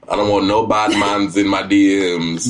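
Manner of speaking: a hint of a Jamaican accent, slowed; light mock Jamaican accent. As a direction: lightly put on Jamaican, drawn out. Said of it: "I chose Jamaican".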